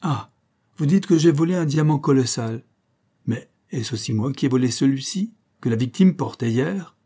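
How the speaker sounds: put-on young engineer turning the tables on Kelly; clear, incisive voice. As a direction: turn the accusation back with a sharp retort. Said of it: "la petite voix claire et incisive".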